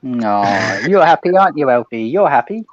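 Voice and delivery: dote on the happy dog. Real, not acted. Talking to dog Elfie.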